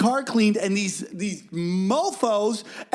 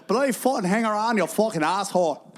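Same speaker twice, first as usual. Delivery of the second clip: bad Northern Irish accent, higher at the start; 3 semitones higher than usual. Shown as a demonstration. Comic showing off his accents on request, Northern Irish accent. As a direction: put on a rough go at Northern Irish. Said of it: "Northern Ireland".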